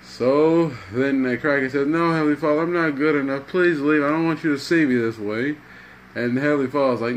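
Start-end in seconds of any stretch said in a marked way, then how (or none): 1.9-5.6 higher-pitched, mildly pleading; acted ashamed plea. Crackhead asking Heavenly Father to leave, mildly acted ashamed pleading. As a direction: plead unworthiness, hurrying at the end.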